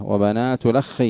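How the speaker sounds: "الأخ" run together as lakhkhi, kha doubled; "وبنات الأخ" linked as wa-banatu-lakhkhi; hamza dropped, vowel transferred. Shown as a demonstration. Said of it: "مع نقل الحركة".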